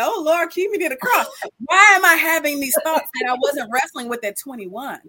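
high-pitched wailing appeal to God; hammed-up dismay at her own thoughts; mock-desperate plea. Woman praying over thoughts she never had at twenty-one, mock desperate.

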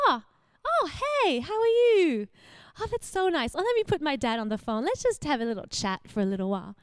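imitating mom thrilled by a call; delighted mom. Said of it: "you can hear it in her voice".

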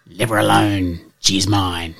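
lightly voiced cocky little dog; a hint of a cheeky Staffy warning the others. Staffy claims the poodle.

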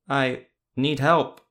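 slow, loud, puppet-like; jaunted marionette voice. A narrator's reading. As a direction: speak like a marionette moved by strings. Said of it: "in a jaunted tone".

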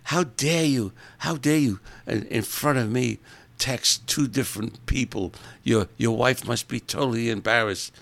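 hammed-up outraged scolding; a lady on a plane scolding a texting man, mock outrage; indignant old lady. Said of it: "this lady freaks out on him".

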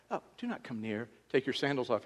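a soft, mild warning with no force. Shown as a demonstration. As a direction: say it gently, almost offhand. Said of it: "All inflection, right?".

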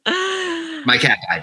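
high, slow fake wail of grief; mock sobbing. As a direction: ham up a tearful sob over the cat. Joking mock grief over cat.

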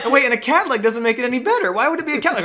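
high, loud incredulous objection; laughing, worked-up disbelief; mock protest. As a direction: protest through amusement, pitch climbing. Challenges the kid's absurd excuse.

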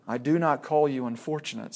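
a hint of a big, calm lion; lightly voiced Aslan, unhurried; large voice. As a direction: Aslan answering the frightened boy, softly grave. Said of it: "said the large voice".

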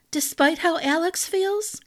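put-on high, airy young woman's voice; light girlish voice. A narrator's reading. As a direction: ask it lightly with a hint of a dig. Bianca's pointed question.

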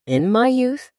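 lightly voiced old sage; a hint of an old man reciting; wise old sage. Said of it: "said the sage".

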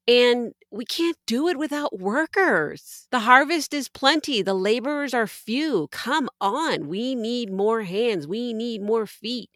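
rallying call. Acted. Rallying listeners to serve.

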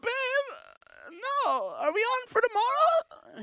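high, sweet-talking falsetto; Delilah. Retold or imitated. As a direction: play coy and innocent in a mock woman voice. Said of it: "This is Delilah's voice".

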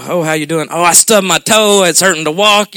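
hammed-up petty grumble; mock complaining. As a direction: play an over-sharer moaning to everyone. Acted petty complainer to everybody.

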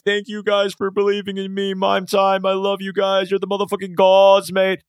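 overjoyed thank-you speech. Pretend. Imagined stage speech to fans.

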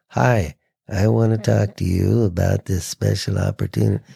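dull, lifeless ad read; flat monotone. Shown as a demonstration. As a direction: read it with no feeling at all. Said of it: "It sounds so flat and nothing".

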